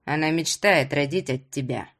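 low, mildly grumbled remark; understated grouchy grandfather; grumbling old man. A narrator's reading. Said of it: "проворчал старик".

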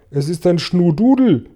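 high exclaimed alarm; calling out. A narrator's reading. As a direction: cry it out to the others. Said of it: "rief der Polizeichef". (aufgeregt ausrufen)

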